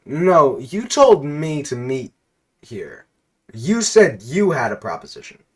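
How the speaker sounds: confused, insistent NPC voice; confused Pringles guy. Acted. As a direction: push back, baffled and insistent. Confused NPC protests to player.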